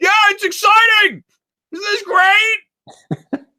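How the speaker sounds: play-acted very high, very slow, loud yelling. Imitating the actor voicing Jason: imitating a yell to sound like Jason. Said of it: "is just yelling to sound like Jason".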